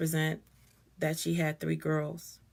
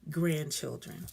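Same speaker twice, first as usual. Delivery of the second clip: deep and deliberate; slower than usual. Real, not acted. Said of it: "I'm being really deep".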